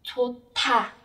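"chột thả" with the final t-sound turned into aspirated TH; bật hơi. Shown as a demonstration. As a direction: say "chột thả", a puff of air opening "thả". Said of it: "trở thành âm bật hơi ạ". (đọc "chột thả", bật hơi rõ ở âm "th")

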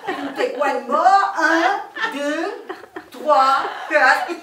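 hammed-up French lady accent; comic French accent. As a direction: introduce yourself as a grand Parisian lady. French lady explains snail method.

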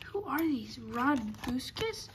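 whispered to himself in confusion; puzzled whisper. Real, not acted. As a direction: ask it under your breath, baffled. Puzzled by odd cards.

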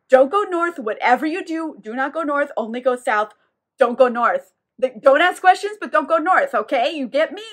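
retold urgent plea to heed advice; insistent warning. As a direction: drive each repeated instruction home. Priests urgently warn Vittorio, retold.

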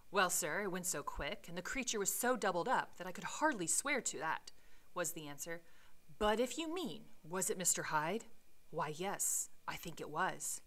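measured read-aloud storytelling voice; story narration; reading the novel aloud. Acted. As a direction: read the Victorian prose with care.

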